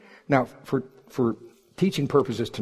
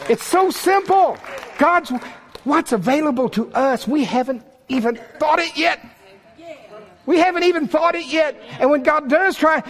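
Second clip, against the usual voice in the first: full-force preaching; 13 semitones higher than usual. Real, not acted. Preacher marvelling to congregation at how God talks to him, excited. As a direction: pitch it way up, stretching the key words.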